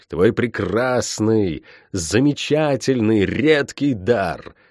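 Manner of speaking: silky, slow sorceress; honeyed witch. Acted. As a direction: purr the offer. Tiph bargains sweetly.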